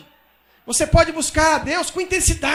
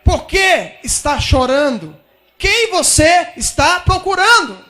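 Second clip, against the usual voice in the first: Jesus calling out; 3 semitones higher, 6 dB louder, slower than usual. Acted. Jesus voiced asking Maria.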